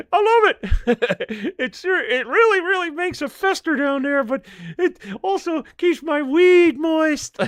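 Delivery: puppet voice giggling through it; a lightly voiced cheeky puppet cracking up; Mister Rob laughing. Mister Rob giggles to the host about his leather underwear, in a lightly voiced puppet voice.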